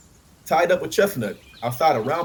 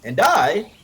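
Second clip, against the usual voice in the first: sharp, louder and higher retort; snapped angrily; 6 semitones higher, 8 dB louder than usual. A narrator's reading. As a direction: bite the words off. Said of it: "snapped Raymond angrily".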